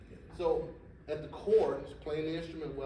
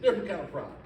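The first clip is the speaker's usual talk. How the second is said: laughing protest; 5 semitones higher, 9 dB louder, faster than usual. Retold or imitated.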